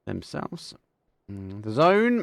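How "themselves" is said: excited commentary. Real, not acted. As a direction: call the kill with rising excitement. Exciting kill in casted match.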